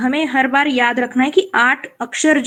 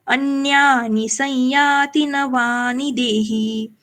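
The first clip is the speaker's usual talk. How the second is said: slow, measured verse; slow shloka recital; much slower than usual. Shown as a demonstration. Teacher demonstrates how to chant the line. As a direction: chant the line slowly and evenly. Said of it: "इस तरह से बोलना होगा".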